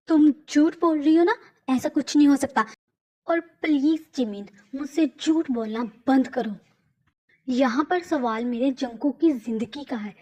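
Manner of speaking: wife accusing Jimin of lying about Jungkook, angry; angry denial. Acted. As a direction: snap at them for lying.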